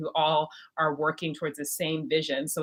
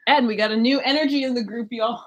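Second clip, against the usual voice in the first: excited announcement; 5 semitones higher, 6 dB louder than usual. Real, not acted. Announcing a new member with flair.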